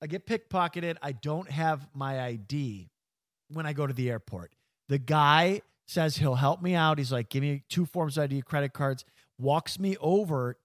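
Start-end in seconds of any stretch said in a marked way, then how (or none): 1.0-9.1 hiccuping through the story; with hiccups. Real, not acted. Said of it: "I'm sorry".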